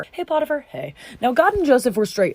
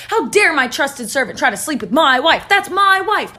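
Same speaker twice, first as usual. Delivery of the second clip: angry; 4 semitones higher than usual. Acted. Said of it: "Potiphar was pissed".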